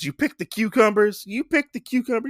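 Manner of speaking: put-on high old woman asking twice; imitating the old woman, pitched high. Correcting himself, the host voices the old lady, high pitched. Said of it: "She says".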